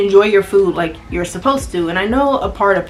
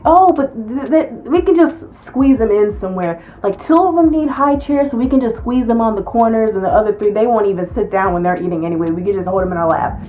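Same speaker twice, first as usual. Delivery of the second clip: mock customer. Customer bargaining over kids.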